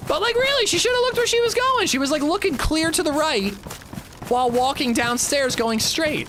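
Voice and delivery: very high, sing-song teasing; baby talk. Retold or imitated. Dad mock-scolding his daughter about falling, high cooing baby talk. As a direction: keep the high cooing voice going, fast at first.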